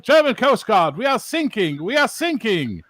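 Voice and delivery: high mock-panicked plea over the radio; urgent sailor. Sinking sailor calls German Coast Guard, high urgent plea. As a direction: plead for rescue in a high, urgent voice.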